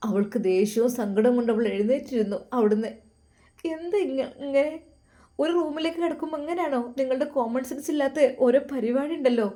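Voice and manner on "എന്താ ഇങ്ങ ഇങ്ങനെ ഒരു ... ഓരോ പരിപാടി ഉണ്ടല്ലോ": outburst. Acted. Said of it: "അവൾ പൊട്ടിത്തെറിച്ചു".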